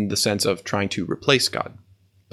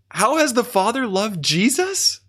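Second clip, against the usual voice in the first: high, laughing wonder; a giddy, higher question through a laugh; amazed question; 10 semitones higher than usual. Real, not acted. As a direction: ask it in delighted awe. Marvelling at the verse.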